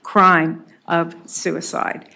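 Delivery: slow, hoarse and strained; raspy whisper. Real, not acted. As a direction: push the words out hoarsely. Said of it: "I'm losing my voice".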